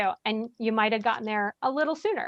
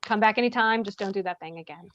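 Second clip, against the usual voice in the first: calm de-escalating; 4 semitones lower, 4 dB quieter, faster than usual. Shown as a demonstration. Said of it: "the more calm we can keep it".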